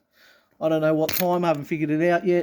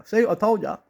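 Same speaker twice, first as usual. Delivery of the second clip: triumphant gloat; 4 semitones higher than usual. Pretend. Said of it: "I can go".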